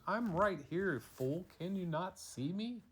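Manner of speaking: a hint of a cocky talking tree. Dad's story, the tree scoffs at the girl, lightly voiced. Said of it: "tree shakes its branches and goes".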